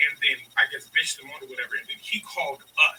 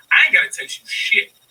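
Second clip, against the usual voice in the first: much higher, louder angry retort; retold yell; 9 semitones higher, 10 dB louder than usual. Telling off a coworker on the phone, heated loud retort. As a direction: snap it back at her, heated.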